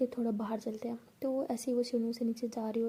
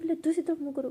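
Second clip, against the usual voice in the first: higher-pitched, urgent command; flustered order; 5 semitones higher, 4 dB louder, faster than usual. Acted. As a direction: order them to turn away, rattled. शर्मिंदा झगड़े में आदेश. (हड़बड़ाया हुआ आदेश)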